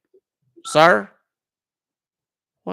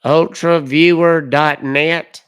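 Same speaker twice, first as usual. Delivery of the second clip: reading back slowly; 8 dB louder, much slower than usual. Real, not acted.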